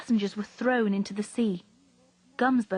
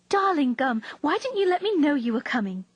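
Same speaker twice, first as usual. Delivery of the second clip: excited greeting; 5 semitones higher, 4 dB louder than usual. A narrator's reading. Niece greets returning uncle.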